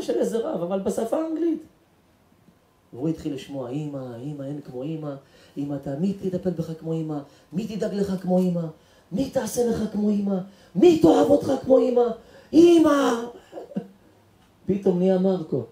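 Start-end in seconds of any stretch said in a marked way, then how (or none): 3.7-13.2 imitated sermon swelling to an outcry; building lament. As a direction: start hushed, climb with each question to a cry. Recorded sermon moves him, building.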